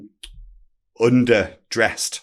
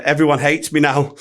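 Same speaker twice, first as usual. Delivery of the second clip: imitating a sulky grown man; a mild mock sulk, slightly raised; childlike sulk; 4 semitones higher, 4 dB louder than usual. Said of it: "went into the corner in a sulk".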